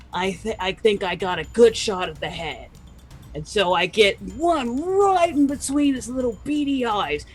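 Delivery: put-on light Australian accent. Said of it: "Steve Irwin the Noblin".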